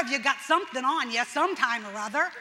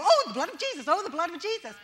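careless mock piety; 4 semitones higher, 4 dB louder, faster than usual. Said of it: "'cause we go".

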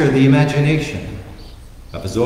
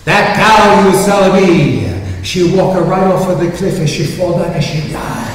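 screaming; 6 semitones higher, 8 dB louder than usual. Retold or imitated. Luigi screams to Vincenzo that his cow died, loud Italian-accent wail. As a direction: wail the name across town, Italian accent.

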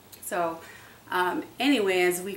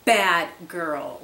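a sharp, much louder "no, bad girl"; harsh scolding; 10 dB louder, much slower than usual. Scolding the puppy for peeing on the floor, harsh and loud. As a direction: bark it at the puppy. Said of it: "very harsh with them and say".

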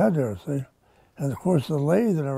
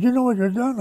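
pitched up, imitating a yelling captain; half-hearted retold scream, higher; mock angry captain; 9 semitones higher, 3 dB louder than usual. Captain berating the shipfitter who changed the ship, mock yell. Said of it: "He, he just screamed".

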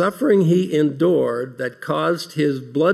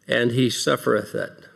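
suffereth leaned on, lower and falling; stress on suffereth; 3 semitones lower than usual. Acted. Preacher dwelling on the scourged Christ, suffereth weighted. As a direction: dwell on suffereth each time. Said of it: "I emphasize that verb every time".

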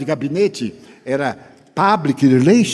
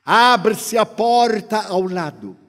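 usual speaking voice

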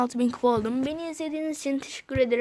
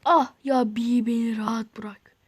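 slow, drawn-out fed-up moan; weary groan; 2 semitones lower, 3 dB louder than usual. Real, not acted. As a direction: plead with a tired groan. Groaning at being chased.

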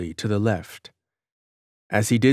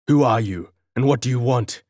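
loud, bold demand to a stranger; guard boldly challenging the cloaked figure, loud; bold challenge; 3 semitones higher, 4 dB louder, faster than usual. Acted. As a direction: stand your ground and call out boldly. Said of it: "he queried boldly".

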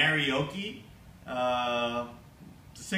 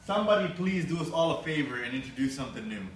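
christmas elf; faster than usual. Acted. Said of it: "I'm talking like an elf".

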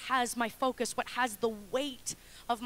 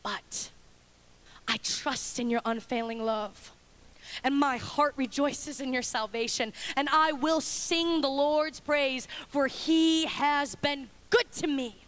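trusting turn; slower than usual. Acted. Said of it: "He says".

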